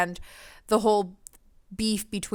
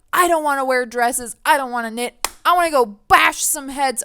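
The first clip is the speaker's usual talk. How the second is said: hot-blooded tomboy; 4 semitones higher, 5 dB louder than usual. Retold or imitated. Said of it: "hot-blooded, powerful".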